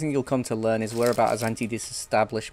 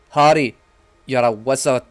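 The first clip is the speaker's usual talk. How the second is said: Hagrid voice; 8 dB louder than usual. Retold or imitated. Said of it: "freaking Hagrid".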